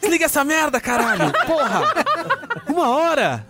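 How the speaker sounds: high furious yell at his brother; angry shout. Retold or imitated. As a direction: bark it out like an angry, half-asleep brother. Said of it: "Aí ele virava, ó".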